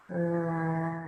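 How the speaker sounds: "Grabs" drawn out slowly and softly; sounding it out. Shown as a demonstration. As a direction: stretch the sounds of "Grabs" apart. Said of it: "Sound it out".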